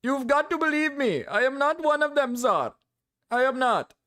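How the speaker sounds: high-pitched, protesting mock Indian accent; put-on Indian accent. Streamer as white man born in India, mock Indian accent. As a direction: plead indignantly in a hammed-up Indian accent. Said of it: "I just have the accent".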